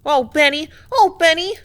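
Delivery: cheering her hero on at the top of her voice; excited girl cheering. Acted. Mabel cheering Benny in the fight, high excited cry. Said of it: "burst forth Mabel Skinner".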